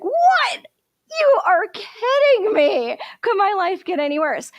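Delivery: very high yelp of disbelief, then a disbelieving wail; shocked outrage. Acted. Nasruddin watching the thief run off with his bag, high shocked cry. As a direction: squeal it like you can't believe your bad luck.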